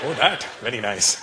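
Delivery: put-on slow Indian shopkeeper accent; hammed-up Indian accent. Shopkeeper praises the customer's choice, hammed-up Indian accent. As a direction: stretch it out in a thick Indian accent. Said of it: "we really ham it up too".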